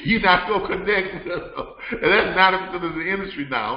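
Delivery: can't hold back the laugh; laughing while talking. Real, not acted. Host chuckling at his own joke about carriers, laughing.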